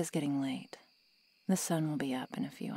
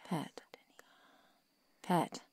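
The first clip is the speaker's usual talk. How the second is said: calling louder each time; 2 semitones higher, 4 dB louder, much slower than usual. Acted. Vampire trying to rouse dazed pet, building call.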